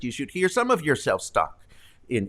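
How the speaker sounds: normal talking voice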